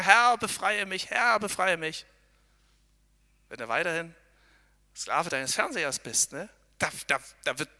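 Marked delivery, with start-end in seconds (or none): 0.0-2.0 mock pleading prayer. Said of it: "sitzen und sagen".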